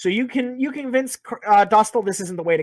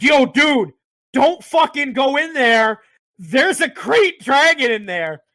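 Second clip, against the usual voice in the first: higher, louder, slow mock warning; urgent warning; 5 semitones higher, 4 dB louder, slower than usual. Stranger warning the party about the dragon, mock urgent. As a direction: warn them off, mock alarm. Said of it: "He's like".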